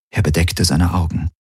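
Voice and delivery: ordinary delivery, nothing marked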